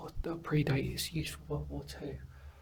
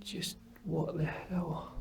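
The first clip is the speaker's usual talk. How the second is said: stunned whisper; 4 semitones higher, 4 dB quieter, much slower than usual. Real, not acted. Stunned by the find.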